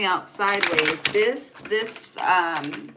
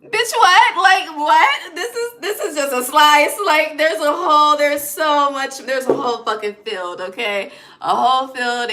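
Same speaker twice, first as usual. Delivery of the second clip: much higher, much louder laughing outburst; God yelling in disbelief at the client, shrill and laughing; God exasperated; 8 semitones higher, 10 dB louder than usual. Acted. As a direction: shriek it like God can't believe it. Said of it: "God is like".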